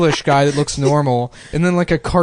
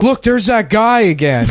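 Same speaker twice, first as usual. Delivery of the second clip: put-on higher, eager child pointing out a man; excited little kid; 8 semitones higher, 4 dB louder than usual. Boy voices himself as a kid to his mom, higher and eager. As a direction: play a blunt five-year-old. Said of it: "and I was like".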